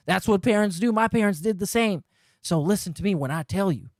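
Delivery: mock him with a faint Southern twang; lightly Southern imitation. Streamer imitates the guy sweet-talking Leanna, light Southern accent. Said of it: "I don't know why he's Southern".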